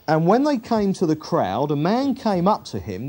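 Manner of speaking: preacher reading a Gospel passage aloud; scripture reading. Acted. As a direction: read scripture out with measured emphasis.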